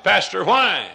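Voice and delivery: loud, high cry of why; a jilted bride shouts her question; shouted plea. A narrator's reading. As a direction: cry it out in grief. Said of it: "and shouted".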